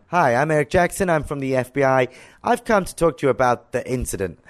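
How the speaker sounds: imitated American official's accent. FBI agent introducing himself to activist, imitated American accent. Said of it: "sorry for my American accent".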